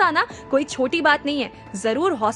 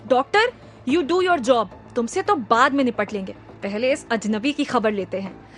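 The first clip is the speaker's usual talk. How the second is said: rudely. Acted. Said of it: "rudely कहा".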